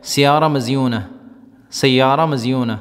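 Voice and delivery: سیارہ مزیون said slowly and carefully, stress on سیارہ; Gulf Arabic phrase. Shown as a demonstration. Teacher giving students a Gulf example phrase. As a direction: model سیارہ مزیون clearly as a beautiful car. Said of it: "مثال کے طور پر".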